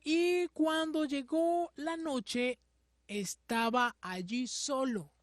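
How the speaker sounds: measured, dramatic Bible reading; solemn storytelling from scripture. A narrator's reading. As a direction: read the passage out deliberately to a congregation. Reads the Bible passage aloud.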